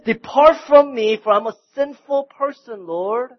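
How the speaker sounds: loud, high, anguished plea to be left alone; Peter's desperate cry. Retold or imitated. Peter cries out to Jesus after the miracle, loud and high. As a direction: cry out the confession at full volume. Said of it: "Peter falls down and he says".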